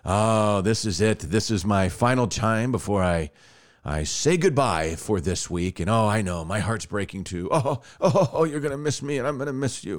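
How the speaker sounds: hint of a corny DJ crooning goodbye; mock sappy DJ. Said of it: "he goes".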